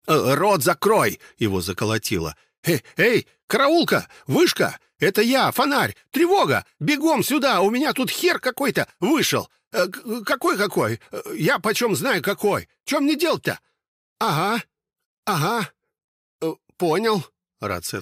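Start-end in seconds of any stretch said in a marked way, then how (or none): 0.1-1.2 nervous shout. Acted. Panicked guard threatens stranger. 2.6-13.6 high, loud, frantic yelling for help; a jittery sentry screaming into the radio; terrified lookout shouting high for backup; panicked guard. Acted. Panicked guard voiced by narrator. 14.2-17.3 high, hurried radio replies; a shaken sentry nodding along on the radio; jittery lookout, voice pitched high; nervous guard. Acted.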